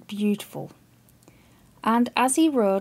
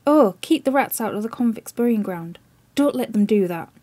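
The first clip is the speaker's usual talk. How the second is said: crying aloud; 4 dB louder than usual. Acted. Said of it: "he would cry aloud".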